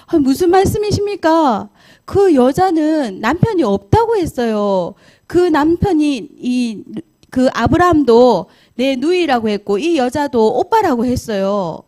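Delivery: a king caught off guard pleading innocence; startled protest. Acted. King protesting to God in his dream, alarmed and pleading.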